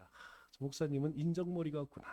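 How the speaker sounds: low, soft disappointed murmur; deaconess's inner thought. Retold or imitated. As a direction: mutter the grudge under your breath. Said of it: "이렇게 생각해요". (서운한 속마음을 낮고 작게)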